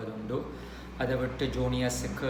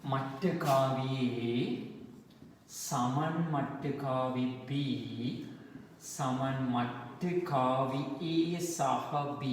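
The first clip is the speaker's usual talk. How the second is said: very slow, drawn-out formula dictation; stretched words with gaps for writing; much slower than usual. Real, not acted. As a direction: spell out the equation symbol by symbol. Dictates equation slowly.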